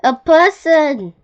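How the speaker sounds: high, loud, drawn-out alarm; alarmed exclamation. A narrator's reading. Scared beetle sees something huge, alarmed cry. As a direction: call out the danger slowly and loudly.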